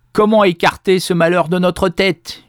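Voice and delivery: high, loud cry of despair; despairing howl. A narrator's reading. Ruined farmer cries out to his family, loud despairing howl. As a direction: wail it out at the ruin. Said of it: "hurlait-il".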